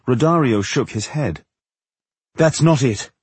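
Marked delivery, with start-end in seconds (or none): 2.4-3.1 theatrical impresario, higher voice; impresario correcting. A narrator's reading. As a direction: dismiss the guess as the impresario.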